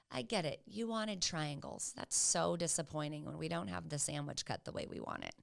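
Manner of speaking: soft, unhurried comfort; gently validate a disappointed child; slowed down, validating. Acted. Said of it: "slow yourself down and say".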